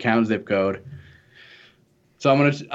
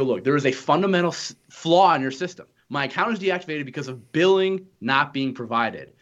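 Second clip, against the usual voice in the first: exasperated, pitched higher throughout; heated rant; 4 semitones higher than usual. Retold or imitated. Explaining the billing flaw to the phone agent, heated and exasperated. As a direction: lay out the broken system in frustration. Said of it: "I'm sorry I'm yelling".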